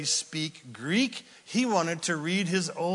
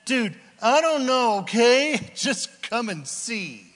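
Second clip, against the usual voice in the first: high, loud, breezy brush-off; casual exasperated Philip; 6 semitones higher, 6 dB louder, slower than usual. Acted. Philip shrugging off Nathanael's question, loud and breezy. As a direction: toss it off like a shrugging friend. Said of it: "Philip said".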